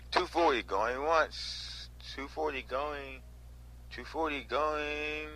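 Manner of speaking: mock auctioneer stretching the call; imitating the auctioneer. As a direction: drag out the going-once like the auctioneer. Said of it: "That's exactly how he says it".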